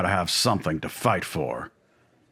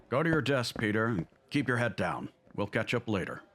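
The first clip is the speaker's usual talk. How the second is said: softer, lowered volume; discreet warning; 7 dB quieter than usual. Acted. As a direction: say it softly, for one colleague's ears only.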